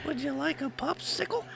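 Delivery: high, soft put-on hillbilly voice; lightly hammed-up Southern phrase; mock Southern voice. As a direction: squeak it like a sweet old Southern lady.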